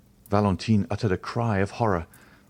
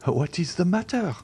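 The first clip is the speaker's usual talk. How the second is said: harsh constrained tone; 10 semitones higher than usual. A narrator's reading. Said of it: "in a harsh and constrained tone".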